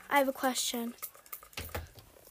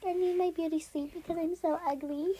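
lightly put-on girly self-pity; mock pick-me fishing for compliments; a hint of affected girly voice; pick-me girl; 2 semitones higher, 5 dB quieter than usual. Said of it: "best impressions of Pick Me Girls".

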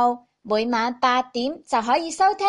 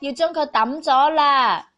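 mother voice. Acted. Mother scolds about shrunk coat.

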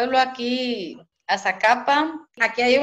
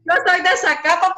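Zacapa singsong lilt, higher, fast; 8 semitones higher, 3 dB louder, faster than usual. Shown as a demonstration. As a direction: sing it out the eastern Guatemalan way, higher and quick. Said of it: "yo hablo cantadito".

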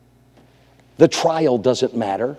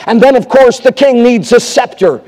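heightened preaching; 9 semitones higher, 7 dB louder than usual. Real, not acted. Preacher heightens the mock coronation.

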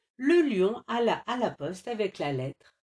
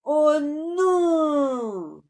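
soupir; 9 semitones higher, 7 dB louder than usual. A narrator's reading. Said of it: "soupira le lion".

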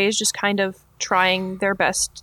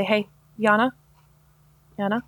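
gentle. Acted. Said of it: "very gently and say".

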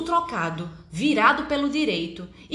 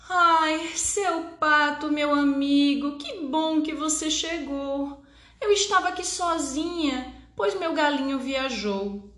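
sad hen voice; 5 semitones higher than usual. Acted. Sad hen answers duck.

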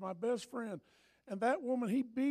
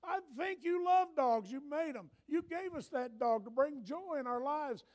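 retold prayer; 5 semitones higher than usual. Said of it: "I said".

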